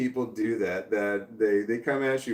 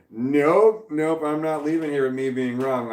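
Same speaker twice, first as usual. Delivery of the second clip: firm refusal; 3 semitones higher, 4 dB louder than usual. Retold or imitated. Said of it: "And I'm just like".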